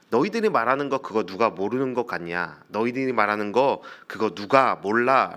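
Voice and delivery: mildly brusque acted retort; a touch of gruff impatience; curt retort. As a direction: brush them off, understated. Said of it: "퉁명스럽게 말합니다".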